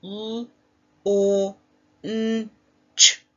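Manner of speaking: L, O, N, Ch sounded one by one, O punched loud; sounding out. Shown as a demonstration. Teacher pinching sounds with class: each sound said apart. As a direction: segment the word into separate sounds. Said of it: "Now let's pinch our sounds".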